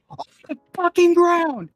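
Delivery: high, loud imitated police shout; retold cop yell. Police officer ordering coworker down, loud retold shout. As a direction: bark it like a cop taking someone down. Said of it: "You hear this guy say".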